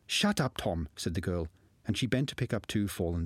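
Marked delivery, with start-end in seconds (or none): 0.1-0.9 sharp hush. Acted. Girl silences frightened boy.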